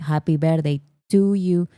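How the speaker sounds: lightly sung happy birthday in thick Spanish-accented English; strong Spanish accent. Shown as a demonstration. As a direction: hum through it in bad, heavily accented English. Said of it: "but with very strong accent".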